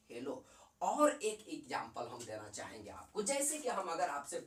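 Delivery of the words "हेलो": affectionate short name. Shown as a demonstration. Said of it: "halogen को प्यार से क्या कहा जाता है".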